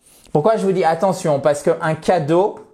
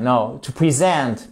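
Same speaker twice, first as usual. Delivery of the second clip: slow, corrected verb present, second syllable stressed; 3 semitones lower, slower than usual. Shown as a demonstration. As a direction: present with a short i and stress on SENT. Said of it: "to present or to present".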